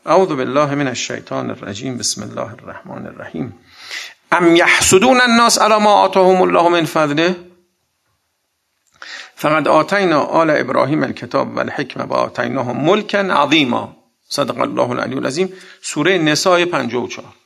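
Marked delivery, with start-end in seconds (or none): 0.0-3.6 low Arabic invocation before a verse; opening recitation. Real, not acted. Preacher opening a Quran verse for listeners, low recitation. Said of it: "یه آیه دیگه هم بخونم". 4.3-15.5 Quran recitation. Real, not acted. Preacher reading a verse to listeners, Quran recitation. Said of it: "یه آیه دیگه هم بخونم".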